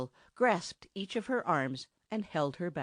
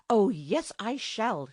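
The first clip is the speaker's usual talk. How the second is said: louder, defiant contradiction; contradicting; 4 semitones higher, 3 dB louder, slower than usual. Acted. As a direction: answer back with spirit. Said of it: "she contradicted".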